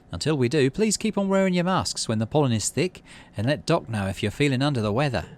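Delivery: put-on a light young-leader voice, a little hurried; Utopia's speech.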